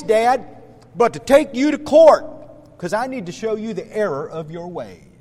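mock-stern child lecturing dad; stern son. Son threatens dad with court, acted sternness. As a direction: deliver a child's solemn, emphatic ultimatum. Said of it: "your son rather sternly says to you".

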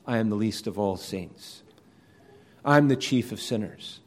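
gently understated, sincere confession. Retold or imitated. Preacher quoting the Apostle Paul's confession, sincere. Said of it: "he is speaking sincerely when he says".

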